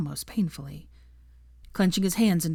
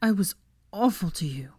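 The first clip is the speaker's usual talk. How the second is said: whispered, tearful whimper; crying into her shoulder, whispered whimper. A narrator's reading. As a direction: confess it in a broken whisper. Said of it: "he whimpered, sniffling loudly".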